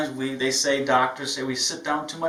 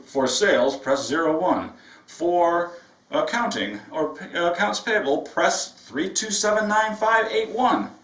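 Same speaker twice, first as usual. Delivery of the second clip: automated phone menu; 3 semitones higher than usual. Retold or imitated. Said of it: "He's talking to a live human being".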